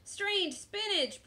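high, slow pirate repeat; disgusted pirate echo. A narrator's reading. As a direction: echo it with drawn-out distaste.

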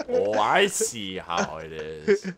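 mock hurt reply. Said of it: "I'm like".

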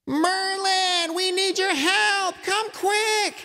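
high, urgent call into the woods; yelling. A narrator's reading. Kids calling Merlin from the backyard, high urgent yell. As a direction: call out for help across the trees. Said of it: "yelled into the forest".

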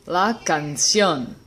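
slow canción, stressed on the final -ción; canción with end stress; last-syllable stress. Shown as a demonstration. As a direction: say canción slowly, weight on -ción. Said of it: "word I'm gonna pronounce for you".

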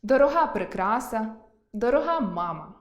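дорога stressed on the final а, дорога́, in both phrases; stress on the last syllable. Shown as a demonstration. Teacher giving examples of дорога́. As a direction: say дорога as дорога́, meaning dear. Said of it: "про ознаку".

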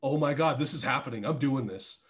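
hushed realization it's happening; quiet mock disbelief; quiet inner thought. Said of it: "and I was like".

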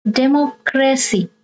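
Democracy in two careful chunks, demo-cracy; third-last syllable stressed. Shown as a demonstration. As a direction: sound out Democracy with a break before cracy. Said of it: "you stress the third syllable from the".

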